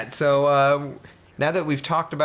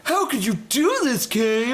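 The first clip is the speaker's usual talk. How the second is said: put-on shocked girl voice; 10 semitones higher than usual.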